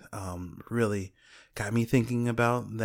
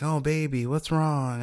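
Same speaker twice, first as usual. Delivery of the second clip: imitated doting big sister; 5 semitones higher than usual. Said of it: "take on the mantle of the big sister".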